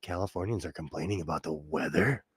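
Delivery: a hint of a smug East Coaster; mocking East Coasters. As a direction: sneer lightly at whiny Californians. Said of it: "everyone on the East Coast is like".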